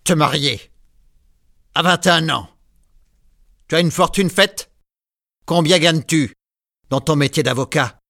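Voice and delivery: lightly voiced old man, mocking and cold; scornful grandfather. A narrator's reading. Grandfather mocks Marius's wish to marry, lightly scornful. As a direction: sneer at the young man's plans.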